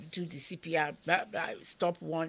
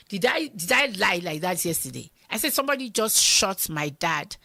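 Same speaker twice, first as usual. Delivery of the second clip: louder, urgent and insistent; insistent shout; 3 semitones higher, 10 dB louder than usual. Retold or imitated. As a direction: make him believe you. Insisting to disbelieving husband.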